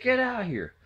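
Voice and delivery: high urgent shout-call; dad yelling at mom to get outside now. Retold or imitated. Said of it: "He yelled at her about three times".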